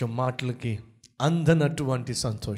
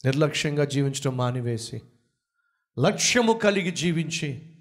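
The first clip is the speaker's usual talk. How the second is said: urgent pulpit appeal, rising in places; preaching exhortation. Acted. Preacher urging listeners to reach the lost, preaching fervently. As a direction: rouse the listeners to act.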